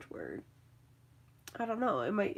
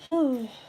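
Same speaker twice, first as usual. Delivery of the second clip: effort sigh; 5 semitones higher, 5 dB louder than usual. Real, not acted. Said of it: "my knees".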